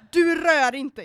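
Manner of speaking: loud, high angry yell; angry retold shout. Telling off a pushy guy at the club, angry shout. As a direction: shout him off, furious.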